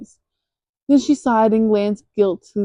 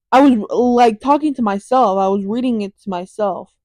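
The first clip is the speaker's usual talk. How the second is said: frustrated; 4 dB louder than usual. Real, not acted. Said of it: "I'm so mad".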